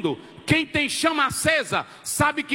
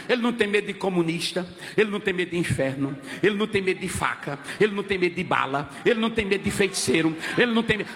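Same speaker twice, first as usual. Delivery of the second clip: fast, low rhythmic list; rapid-fire low preaching refrain; preacher's litany; 6 semitones lower, faster than usual. Real, not acted. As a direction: rattle off each line in the same low cadence.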